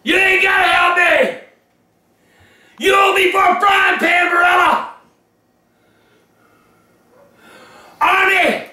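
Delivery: furious yelling rant; angry shouting. Acted. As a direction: bellow it in outrage. Furious rant at pasta brand.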